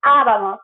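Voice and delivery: abamos with the voice rising on the first A; stressed first syllable. Shown as a demonstration. Teacher showing students the accent mark, stressed first syllable. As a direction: lean hard on the opening A of abamos. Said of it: "Your voice goes up with that accent mark".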